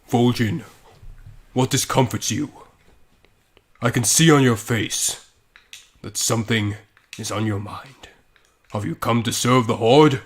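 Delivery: lightly voiced solemn warchief; measured, halting stately questions; a hint of grave game-character acting; Thrall. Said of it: "I'll be Thrall".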